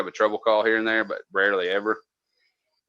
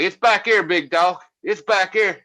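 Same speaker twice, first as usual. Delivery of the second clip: casual mid-act reply; 8 semitones higher than usual. Retold or imitated. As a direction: toss it off like nothing is happening. Man mid-act pointing casually.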